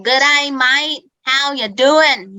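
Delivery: put-on slow, lightly done broad Australian accent; a light mock of a broad Australian drawl; Steve Irwin. Teacher lightly mocking the Aussie stereotype for her students, broad Australian accent. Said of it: "or they speak like Steve Irwin".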